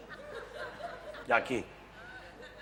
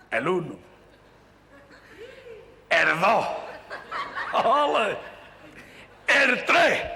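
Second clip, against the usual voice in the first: Andalusian counting; 9 semitones higher, slower than usual. Acted. Andalusian man counts one to ten, hammed-up Andalusian flamenco calls. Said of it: "un andaluz".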